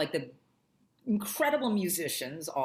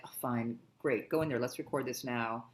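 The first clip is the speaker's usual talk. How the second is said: low, muted grudging go-ahead; annoyed; 5 semitones lower, 4 dB quieter than usual. Retold or imitated. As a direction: mildly imitate a man giving in reluctantly. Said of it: "he was almost seemed annoyed".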